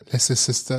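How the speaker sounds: „Leicester Sister“ with German-style vowels; attempting Leicester. Shown as a demonstration. German friend tries the English town name, stumbling pronunciation. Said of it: "Meine Zunge bekommt das nicht hin".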